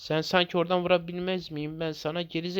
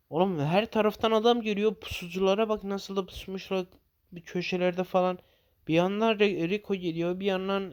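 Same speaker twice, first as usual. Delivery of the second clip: alarmed calling out; 5 semitones higher than usual. Real, not acted. Enemies coming from everywhere.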